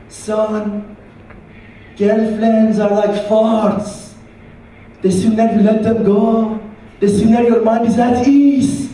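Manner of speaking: slow, wise-sounding counsel; old shisha man advising a young man on girls; old Persian advisor. Retold or imitated. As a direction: dispense mock wisdom like an elder. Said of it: "This old Persian guy".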